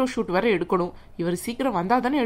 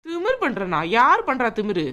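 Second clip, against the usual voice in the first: indignant shock. Acted. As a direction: throw the accusation back at her. Indignant at being called arrogant.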